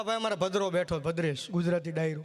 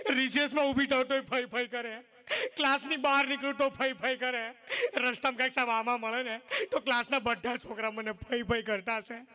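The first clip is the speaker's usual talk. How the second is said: tearful complaining schoolgirl; mock crying girl. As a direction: sob out the complaint, hammed-up. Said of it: "રોતી રોતી કહે". (રડતી રડતી ફરિયાદ)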